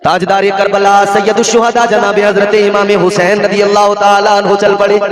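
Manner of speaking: solemn declaimed storytelling; intoned sermon narration. Acted. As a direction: recite the sacred story on a held high note.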